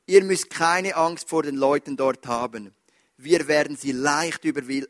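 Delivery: solemn scripture reading from the pulpit. Acted. Reads Bible passage.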